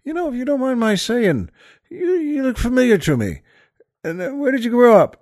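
high, amused retelling of the quote; a hint of the excited pub fellow; laughing retold line. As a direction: replay the line through a chuckle. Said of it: "makes me laugh again".

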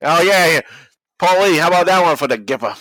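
rally the team like the Gipper speech; Knute Rockne impression. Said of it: "Knute Rockne, uh, again".

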